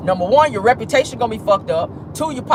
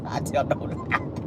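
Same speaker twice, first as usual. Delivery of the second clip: laughing; 10 semitones higher, 10 dB quieter than usual. Real, not acted. Laughing after joke.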